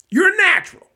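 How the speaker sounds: a squeaky high showman's compliment; high mock praise. Witcher praising the little kid, high and loud. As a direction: toss it off like a proud old trickster.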